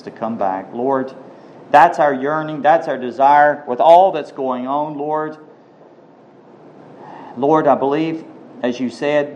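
prayer. Real, not acted. Pastor leading the church in prayer, earnest.

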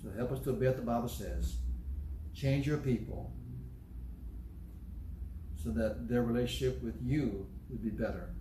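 calm, earnest closing prayer. Acted.

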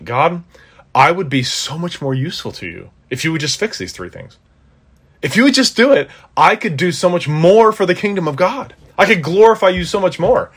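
high, pleading, whiny prayer voice; mock pleading prayer. Preacher mocking his own prayer to God, high pleading whine.

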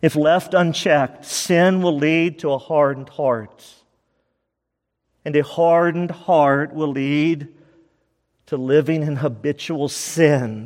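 deliberate slow repeat of the key; slow restatement. Shown as a demonstration. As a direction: say it again slowly, word by word. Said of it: "Key number four".

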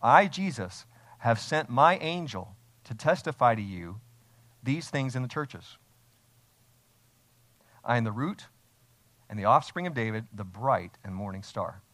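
loud, stressed I, the closing words slowed; emphatic declaration. Shown as a demonstration. Preacher reading Jesus' words to the church, emphatic. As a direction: proclaim it with authority, leaning on I. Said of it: "He's speaking emphatically".

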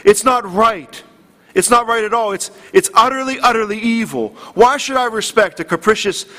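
lightly imitated contempt for a capricious God; preacher voicing a celebrity's complaint to God, mildly indignant. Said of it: "he was indignant in the video".

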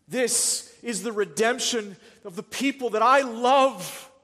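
loud, high preaching as God the Father; the Father speaking. Acted. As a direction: thunder out God's promise to sinners. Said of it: "What did the Father say?".

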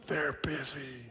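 put-on soft whispered child voice; child's whisper. Boy says his mother is busy, whispering. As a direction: keep it hushed like a hiding kid. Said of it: "Still whispering".

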